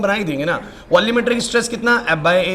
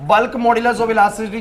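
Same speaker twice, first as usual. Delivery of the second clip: drawn-out dictation of a heading; slow dictation; much slower than usual. Acted. Teacher dictating the next topic heading, very slow. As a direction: say it slowly so they can write it down.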